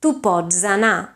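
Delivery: "tu pots anar" with the final ts voiced to dz; voiced Catalan sandhi. Shown as a demonstration. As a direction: voice the ts before the vowel. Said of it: "it has to be voiced".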